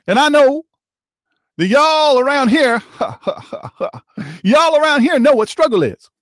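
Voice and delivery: imitating a politician playing preacher to a black church; mock black preacher. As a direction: ham up a fiery Sunday sermon, mockingly. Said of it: "he is a black preacher".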